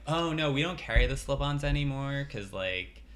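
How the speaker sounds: lightly voiced store clerk; a hint of a fussy salesperson; shoe store lady voice. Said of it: "I don't know why I'm doing this voice".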